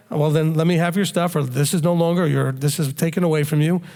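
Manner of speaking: calm, even parent voice. Acted. Parent calmly taking a teen's stuff away, calm. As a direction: say it calmly, without anger. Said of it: "Just very calmly say".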